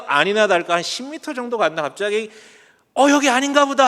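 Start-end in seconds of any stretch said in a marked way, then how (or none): 2.9-3.8 high, loud exclamation of realising a mistake; sudden realisation. Retold or imitated. Second cyclist discovering the wrong turn, sudden realisation. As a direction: imitate a rider caught out by his own error.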